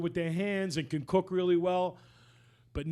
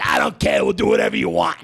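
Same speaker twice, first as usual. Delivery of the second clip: retold loud reply; 13 dB louder than usual.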